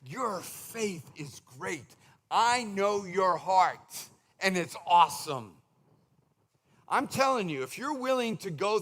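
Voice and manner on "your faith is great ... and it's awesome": warm affirmation. Retold or imitated. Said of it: "and he says".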